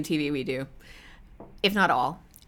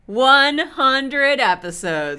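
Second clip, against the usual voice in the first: each word drawn out slowly; slow emphatic announcement; 6 semitones higher, 8 dB louder, much slower than usual. Real, not acted. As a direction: savour every word, proudly. Celebrating the hundredth episode.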